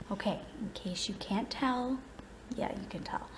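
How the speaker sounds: whispering. Real, not acted. Kids asleep, quiet vlog.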